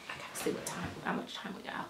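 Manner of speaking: real whisper to oneself; whispering while checking the time; whispered aside. Real, not acted. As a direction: drop into a quick private whisper.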